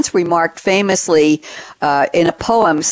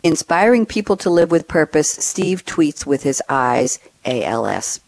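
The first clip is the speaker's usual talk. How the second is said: holding back tears. Real, not acted. Host moved while reading a tweet aloud, holding back tears. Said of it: "I'm gonna try not to cry".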